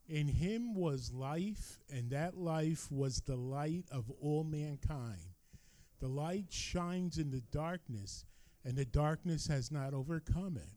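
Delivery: slow congregational reading in unison; many voices in unison. Real, not acted. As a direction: read it slowly together, as one. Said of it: "if you would read it with me".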